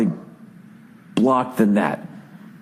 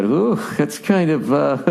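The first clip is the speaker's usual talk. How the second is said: mock uneasy anchor; 3 semitones higher than usual. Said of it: "they kinda do that".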